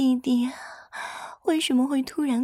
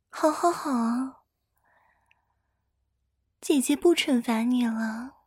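calm him down word by word. Acted. Giving in, soothing him.

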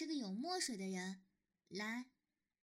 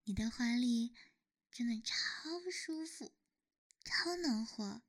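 whispering; 2 semitones lower, 4 dB louder than usual. Acted. Cuddling, whispering into lover's arms.

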